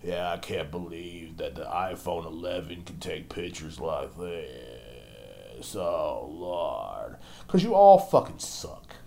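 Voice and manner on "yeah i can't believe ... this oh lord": low, soft, slow vapid drawl; mocked millennial parent. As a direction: drag it out like a bored, self-absorbed parent. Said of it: "while they're sounding like".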